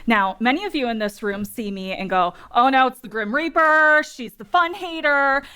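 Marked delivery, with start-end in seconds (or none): 2.5-5.4 playful mock-horrified groan of recognition; mock dread. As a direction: imitate people dreading the party pooper. Voicing audience dreading the speaker.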